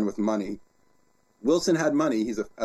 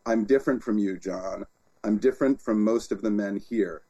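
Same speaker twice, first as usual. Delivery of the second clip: reading a quote; 3 semitones lower than usual. Shown as a demonstration. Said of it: "Here's what Wilson says".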